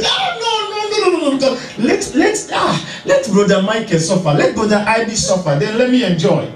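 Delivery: high, pleading mock protest with a laugh; mock selfish plea. Preacher mimicking a selfish believer, high pleading protest. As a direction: play the believer begging God to pick someone else.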